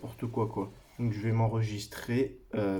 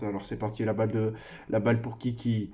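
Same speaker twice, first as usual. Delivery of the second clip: loud play-by-play football call; esports caster; 7 dB louder than usual. Pretend. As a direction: call the shot like a live commentator. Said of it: "j'ai l'impression d'être un commentateur e-sport".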